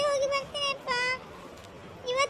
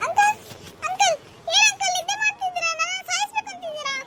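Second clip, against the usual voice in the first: angry scolding; 3 semitones higher than usual. Acted. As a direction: snap at the dozing driver. Scolding sleepy auto driver.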